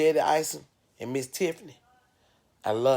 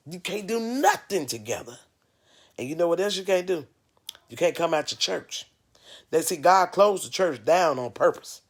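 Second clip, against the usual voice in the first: loud, higher scolding sermon building; fired-up reproach, louder and higher; preaching rant; 6 semitones higher, 4 dB louder than usual. Real, not acted. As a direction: call out the churches like a street preacher. Scolding churches, preaching at full force.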